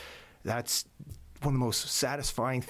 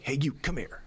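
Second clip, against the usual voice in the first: a bossy bark at his son, pitched up; gruff drill instructor call; 4 semitones higher than usual. Retold or imitated. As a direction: call the boy over like a drill sergeant. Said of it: "me being me, I'm like".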